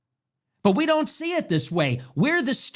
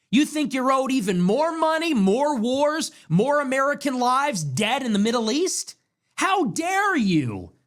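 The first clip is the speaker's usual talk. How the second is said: raised, higher-pitched indignant challenge; 4 semitones higher than usual. Real, not acted. Host confronting people who come into our country, indignant. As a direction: demand answers in outraged, rising pitch. Rages at those disloyal to America.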